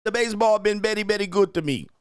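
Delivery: high, loud mock Latino accent; Latino player accent. Player answering the interview in a mock Latino accent. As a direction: put on a thick Latino accent. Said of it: "I can't even do the accent".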